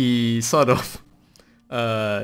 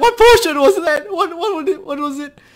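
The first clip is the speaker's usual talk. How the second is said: scared, slow, halting, high-pitched voice; 7 dB louder than usual. A storyteller voices a man asking what the potion was, scared. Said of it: "he's like scared now".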